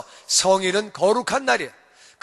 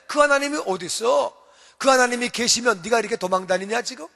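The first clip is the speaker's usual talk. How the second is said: mocking taunt. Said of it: "사람들이 조롱하는 거야".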